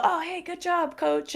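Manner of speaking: high, soft congratulation to coach; lightly acted, meek post-round compliment; tentative praise. Retold polite praise after round.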